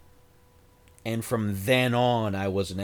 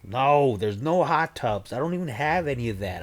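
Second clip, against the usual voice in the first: loud denial; 5 semitones higher, 4 dB louder than usual. Real, not acted.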